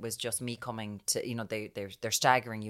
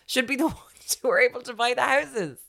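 much higher and louder; worked-up outburst; 14 semitones higher, 8 dB louder than usual. Real, not acted. Ranting to her co-host about no housing, high and loud. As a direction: let the frustration spill out.

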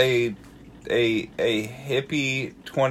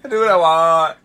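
laughing echo; 8 semitones higher, 7 dB louder than usual. Real, not acted. Listener echoes the quote.

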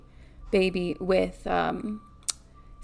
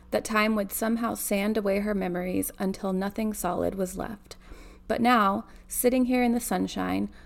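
measured read-aloud narration; story narration. A narrator's reading. Reader telling of a granddaughter by the bed, story narration. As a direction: read the novel out evenly.

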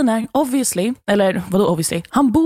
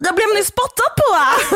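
laughing through it; 11 semitones higher than usual. Retold or imitated. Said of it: "Och så jag bara".

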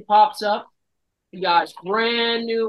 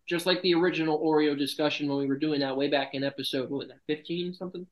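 talking through a mouthful; words round a bite of cookie; mouth full; 3 semitones lower, 4 dB quieter than usual. Real, not acted. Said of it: "not talk with your mouth full".

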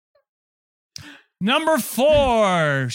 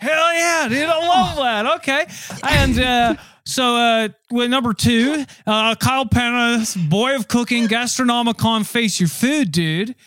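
surfer dude voice; 5 semitones higher than usual. Acted. Surfer chef hypes the list.

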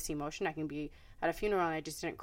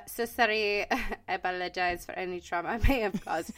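laughing mock apology. Joking apology amid shared laughter.

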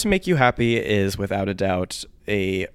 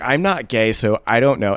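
mock-defiant, louder insistence; defiant denial; 2 semitones higher, 5 dB louder than usual. Host mocking their old journal entries, defiant. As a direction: lightly send up your own defensive protest. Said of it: "how defiantly heterosexual I am".

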